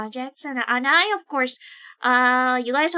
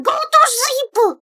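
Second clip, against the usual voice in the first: high, loud, slow scolding; playful scolding; 12 semitones higher, 9 dB louder, slower than usual. Real, not acted. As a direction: order them to bed, teasing.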